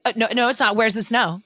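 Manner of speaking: loud, emphatic Elf mimic; mimicking Elf. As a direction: bark it back like Buddy the elf. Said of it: "we always, like, mimic that".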